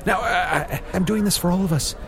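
lingering high, strained pitch; high dying voice. Acted. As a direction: keep the dying act going high. Continuing the dying act.

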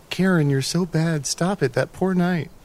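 drawn-out teasing reproach; giggling onlooker. Retold or imitated. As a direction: imitate a tittering bystander chiding a friend. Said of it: "several more people behind her giggle and go".

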